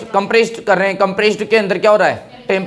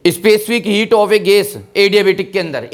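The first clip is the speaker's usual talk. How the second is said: slow rereading; much slower than usual. Shown as a demonstration. Teacher rereads the question slowly for students. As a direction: drag each word out slowly.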